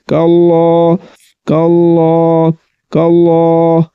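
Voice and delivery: कल्ला with a thick, full l; heavy l. Shown as a demonstration. Teacher demonstrating heavy lam in Allah. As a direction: round the l of कल्ला heavily. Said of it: "मोटा करके पढ़ेंगे".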